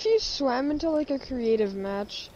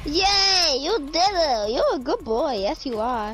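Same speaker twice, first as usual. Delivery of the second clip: talking to a dog. Acted. Praising a friend like a pet.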